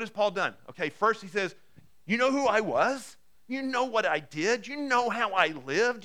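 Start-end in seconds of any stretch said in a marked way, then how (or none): 2.1-6.0 fervent questions. Acted. Preacher voicing Paul's questions.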